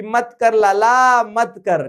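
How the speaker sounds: drawn-out, lightly teasing admonishment; hammed-up plea to stop; mock warning. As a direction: stretch it out, playfully warning him off. Acts out Assembly warning the king.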